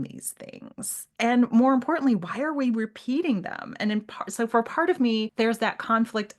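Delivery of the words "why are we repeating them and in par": ordinary delivery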